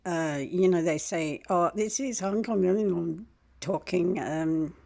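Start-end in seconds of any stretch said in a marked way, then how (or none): 1.5-4.7 lightly imitated Indian call-centre accent; a hint of an Indian accent; mock Indian accent. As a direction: put on an Indian accent, politely. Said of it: "In their accent".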